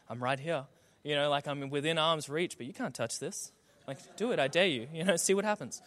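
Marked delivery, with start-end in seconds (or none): 0.1-0.6 low, soft mock taunt; taunting dishwasher. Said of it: "it was there to tease us and taunt us". 1.5-5.8 soft, playful goading; taunting dishwasher. Pretend. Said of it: "it was there to tease us and taunt us".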